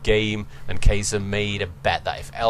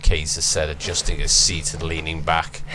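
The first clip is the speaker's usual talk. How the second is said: ordinary talk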